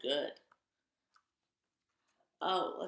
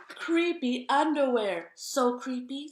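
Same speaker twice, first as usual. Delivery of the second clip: plain; 4 semitones higher, 9 dB louder, slower than usual. Acted. Spooky read of creepy underwear.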